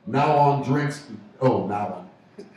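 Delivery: slow Aussie "now on"; Australian accent. Shown as a demonstration. Host trying an Aussie phrase, slow mock-Australian. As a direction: stretch "now on" with a put-on Australian vowel. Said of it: "that's how you say it in Australia".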